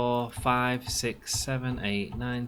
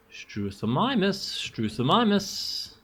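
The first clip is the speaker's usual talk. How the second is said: calling out; 8 semitones higher, slower than usual. Acted. Calling out for a lost dinosaur.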